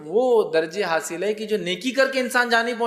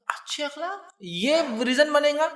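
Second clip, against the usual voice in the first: an astonished query, pitched higher and slow; surprised question; 8 semitones higher, slower than usual. Retold or imitated. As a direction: ask it as if you can't believe it. Wife questions the Prophet.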